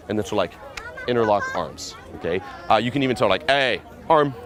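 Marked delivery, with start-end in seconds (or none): 3.5-4.3 raised, brief order. Shown as a demonstration. Pickup coach telling a girl to link arms, ordering. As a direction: demand the arm casually. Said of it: "again, order".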